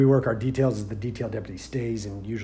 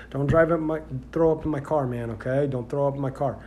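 urgent pleading; 3 semitones higher than usual. Retold or imitated. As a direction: beg him not to throw up, a bit raised. Pleading with sick drunk in back.

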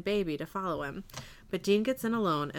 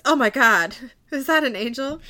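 awed gasp; 4 semitones higher, 8 dB louder than usual. Retold or imitated. Priest sees bright light.

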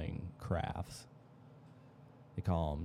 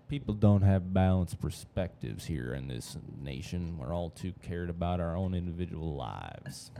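put-on Texas accent; 3 dB louder than usual. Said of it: "Getting that Austin, Texas accent warmed up".

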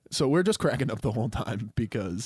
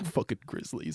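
grumbling Australian at the back; mock-disgusted Aussie heckle; put-on Australian accent; 8 dB quieter than usual. Nick grumbling at the back, put-on Australian accent. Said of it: "like, sitting in the back".

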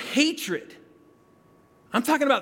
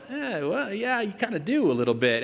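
reluctant, wavering admission; hedging spouse. Acted. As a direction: imitate a spouse gently hedging. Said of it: "Ask your spouse. They're the ones that might go".

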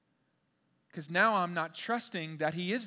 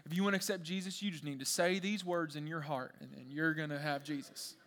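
lightly put-on Southern preacher; bad Southern accent; 4 dB quieter than usual. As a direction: imitate a Southern pastor, none too well. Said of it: "that's a bad accent".

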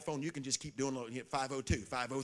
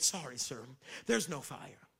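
hotel lady; 3 semitones lower, 4 dB quieter than usual. Retold or imitated. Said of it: "This is what the lady said to me".

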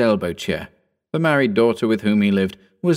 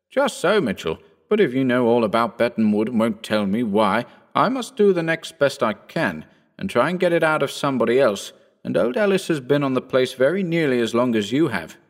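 put-on a lighter, higher young gentleman's voice; young Phillipson; 3 semitones higher than usual. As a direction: lift the voice into the eager young squire. Phillipson answers Mitchell.

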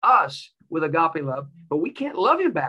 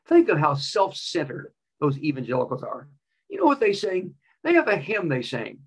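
mocking professor. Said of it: "one of the professors was mocking".

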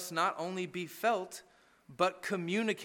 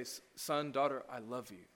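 awkward father; 6 semitones lower, 9 dB quieter than usual. Pretend. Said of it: "even awkwardly so".

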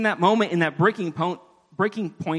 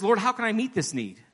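complaining to God; 5 semitones higher than usual. Acted. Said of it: "he's complaining to God".

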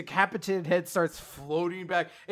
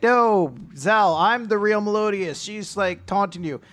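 pleading; 6 semitones higher, 5 dB louder than usual. Pretend. Acted plea in Melodius' role.

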